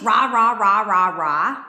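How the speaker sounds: loud mocking nonsense yelling; mock ranting. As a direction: parody his shouting as repeated noise. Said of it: "you have an argument and he's fucking".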